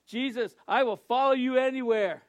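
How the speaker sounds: ringing vow of loyalty; eager pledge. Acted. Voices healed man's eager pledge.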